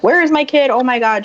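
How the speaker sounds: mock panicked call for her child; retold panic. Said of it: "just freaking out".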